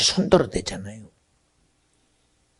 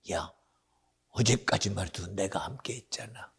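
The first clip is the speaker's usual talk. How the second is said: whisper; 6 semitones lower, 15 dB quieter than usual. Real, not acted. Whispered intimate aside.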